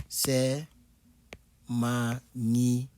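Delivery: "C'est" whispered, "magnifique" slow and hushed. Shown as a demonstration. Teacher whispering to show "magnifique" slowly. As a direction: breathe "magnifique" slowly as if in awe.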